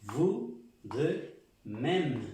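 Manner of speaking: "Vous de même" very slow and loud; slow French phrase. Shown as a demonstration. Teacher slowly modelling "Vous de même" for the class. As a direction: stretch out "Vous de même" clearly. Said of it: "¿Cómo se dice igualmente".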